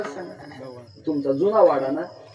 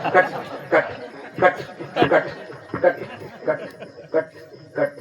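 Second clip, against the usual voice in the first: clock ticking imitation. Shown as a demonstration. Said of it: "वाचतं का नाही?".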